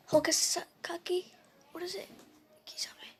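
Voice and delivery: trailing down to very soft; muttering to self. Real, not acted. Storyteller searching memory for a clan name, muttering to self. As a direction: think aloud under your breath.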